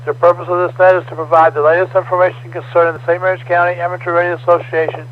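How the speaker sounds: formal scripted net opening; radio net announcer. Acted. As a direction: read the net preamble steadily. Reads net control preamble.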